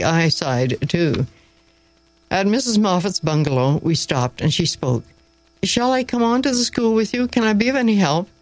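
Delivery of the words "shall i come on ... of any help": put-on high-pitched, helpful young-lady voice; eager offer. A narrator's reading. Miss Gray offering the teacher help, eager.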